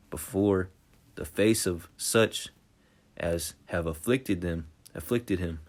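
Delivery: slow, loud preaching read; slow, booming scripture read. Acted. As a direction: proclaim each word slowly from the pulpit. Reads scripture aloud.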